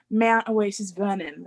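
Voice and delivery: imitated Australian accent, drawn out; Australian-accented place name, said slowly. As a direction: copy a girl's slight Australian accent.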